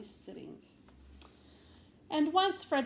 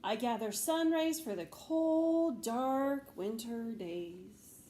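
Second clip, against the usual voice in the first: slow dreamy; much slower than usual. Acted. Frederick answers dreamily.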